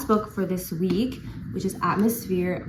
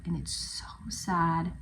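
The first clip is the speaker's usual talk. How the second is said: whisper; 4 dB quieter than usual. Real, not acted. Whispering about a sad book.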